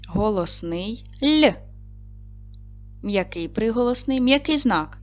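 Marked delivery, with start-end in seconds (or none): 1.2-1.5 "Л" as one short consonant; higher, separate "Л"; isolated sound. Shown as a demonstration. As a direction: sound out "Л", not the letter name. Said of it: "виконаємо звуковий аналіз слова".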